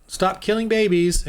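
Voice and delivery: lightly voiced God commanding; God's voice. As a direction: speak as God ordering them to stop. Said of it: "God is saying".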